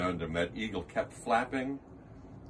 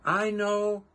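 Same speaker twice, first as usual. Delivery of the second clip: louder, higher calling; called out; 7 semitones higher, 4 dB louder than usual. Acted. Who mayor calling up to Horton, louder high call. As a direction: call it up from far below. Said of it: "called the voice".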